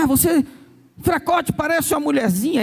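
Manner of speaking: mocking parent. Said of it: "o pai e a mãe falam".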